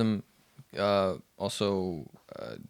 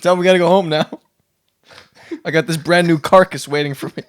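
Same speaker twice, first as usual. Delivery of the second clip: high laughing dolphin voice; 9 semitones higher, 14 dB louder, faster than usual. Acted. Voicing dolphin Jake.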